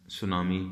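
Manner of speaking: "सुनामी" begun straight on an s sound, no t; silent first letter. Shown as a demonstration. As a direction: say "सुनामी" with the initial T left silent. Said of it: "पहला word ही silent".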